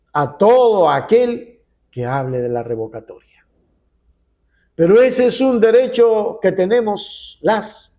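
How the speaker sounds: emphatic, measured oratory with dramatic pauses; political editorial. Real, not acted. Editorialist addresses Ecuadorians on the recall fight, emphatic oratory. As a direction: punch the key phrases, let endings fall.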